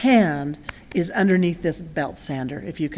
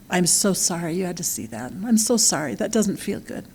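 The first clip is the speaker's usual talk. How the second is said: tender comfort. Retold or imitated. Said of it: "and I said".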